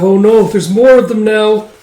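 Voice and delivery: high, loud cry of dismay; alarmed child. Acted. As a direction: exclaim in a high panicky voice. Frightened child sees more enemies.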